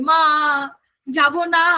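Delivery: put-on মা and যাব না stretched like a crying child; child crying, dragging each vowel; drawn-out whining. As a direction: whine it, pulling the vowels long. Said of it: "কিন্তু তারপরে আর টানছে".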